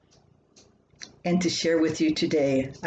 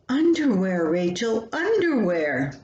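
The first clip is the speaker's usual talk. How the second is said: frustrated. Acted. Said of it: "Frustration was setting in".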